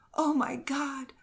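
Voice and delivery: horrified breathy whisper, slow; anguished whisper. A narrator's reading. Mother hears bad news, whispered anguish. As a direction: gasp it out in horror. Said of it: "cried the woman in the greatest anguish".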